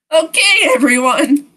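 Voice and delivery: acted chirpy interruption; cheery club announcer. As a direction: call the room to attention. Voices game character interrupting the scene.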